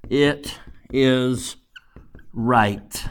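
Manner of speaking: hushed whisper, felt not argued. Shown as a demonstration. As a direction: let it drop to a whisper, as if to yourself. The feeling shown in a hush.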